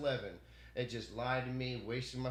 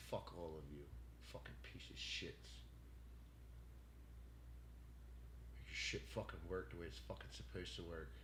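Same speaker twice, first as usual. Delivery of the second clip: pissed off; 6 semitones lower, 13 dB quieter than usual. Real, not acted. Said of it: "I'm so fucking pissed off".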